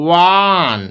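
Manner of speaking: ওয়ান drawn out, starting with a clear wa sound; sounding out one. Shown as a demonstration. Teacher shows the class a sound: ওয়ান begins with wa. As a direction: say ওয়ান slowly, opening on wa. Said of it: "ওয়া শব্দটা আসছে".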